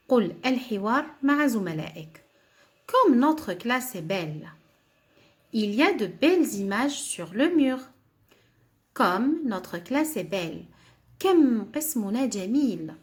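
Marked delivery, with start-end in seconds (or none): 2.9-4.5 slow, clear dialogue line for the class; teacher modelling a sentence, slow and clear; slow model reading. Shown as a demonstration. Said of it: "Dis le dialogue avec tes camarades". 8.9-10.7 slow, clear dialogue line for the class; teacher modelling a sentence, slow and clear; slow model reading. Shown as a demonstration. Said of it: "Dis le dialogue avec tes camarades".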